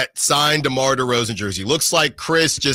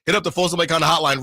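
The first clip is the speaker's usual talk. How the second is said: excited; 4 semitones higher, faster than usual. Acted. Radio contest call announcement.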